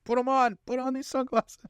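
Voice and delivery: very high, strained acted demand; hammed-up high-pitched badgering; frantic mock insistence. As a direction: plead and yell like a crazed movie hero. Acting out the insistent film hero.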